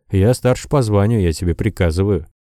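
plain reading voice

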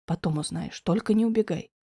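a loving man calmly comforts Diana; gentle Alex. A narrator's reading. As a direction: reassure her quietly. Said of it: "предупредил он".

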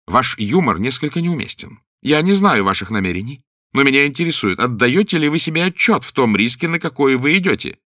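резкий, повышенный голос, выше и громче; отчитать капитана резко и напористо. A narrator's reading. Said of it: "резко сказал Уэйд". (резко, с напором)

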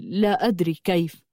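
a touch of distraction; absent-minded. A narrator's reading. Man unsure how he got here, mildly absent-minded. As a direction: answer as if your thoughts are drifting. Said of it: "قلت شاردا".

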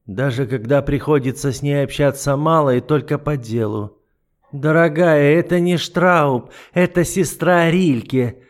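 lightly voiced icy duke, mocking; an understated sneer; a hint of the cold duke. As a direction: toy with her calmly. The duke gives orders.

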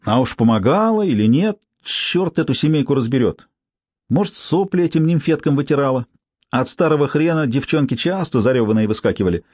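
lightly voiced brassy street woman; feral wasteland raider. Tsypka gossiping.

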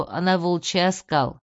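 usual speaking voice

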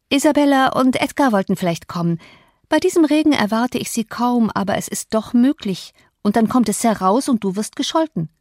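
Cathy pushing him away, mildly uneasy; lightly voiced young Cathy.

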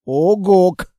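a short, loud creature grunt; monster grunt. Acted. The monster grunts at the reading girl. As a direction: bark it like a beast.

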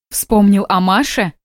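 slow, bitter reproach; bitter question. Acted. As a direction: let the bitterness slow the words down. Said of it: "горько спросила она". (медленно и горько)

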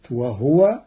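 "وهو" said wahwa, ha without vowel; وهو with silent ha. Shown as a demonstration. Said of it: "بإسكان الهاء". ("وهْو" بإسكان الهاء)

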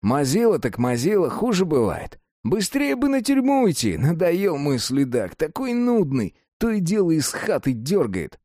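lightly voiced streetwise prison con; a hint of a jailhouse old-timer; convict voice. Cellmate convict talking.

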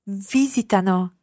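VIsitano, modelled carefully with the stress up front; first-syllable stress. Shown as a demonstration. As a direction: lean on the VI of visitano. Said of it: "watch your accent on the third person plural".

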